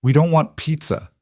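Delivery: put-on high-pitched little girl piping up; lightly voiced young daughter; small child's voice. A narrator's reading. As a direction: cut in suddenly as a small child. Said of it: "her small voice cutting through the tension".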